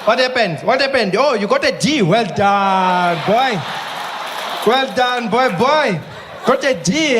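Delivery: mock praise. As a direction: praise a failing kid sarcastically. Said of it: "Who's there, like".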